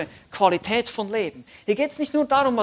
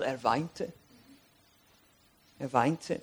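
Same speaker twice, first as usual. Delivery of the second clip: soft, lower voice; hushed verse reading; 8 semitones lower, 9 dB quieter, much slower than usual. A narrator's reading. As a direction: let the words drop softly and low. (leise und tief, andächtig)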